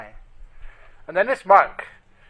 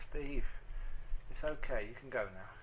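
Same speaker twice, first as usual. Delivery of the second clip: soft, tender retelling of a loving goodbye; gentle farewell; 4 semitones lower, 9 dB quieter than usual. Retold or imitated. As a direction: let the voice sink softly as you release them. Wife releasing dying husband.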